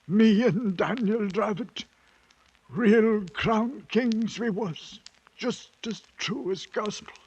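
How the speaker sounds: wistful triumph; proud. Acted. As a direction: boast of past glory. Proud memory, slow and loud.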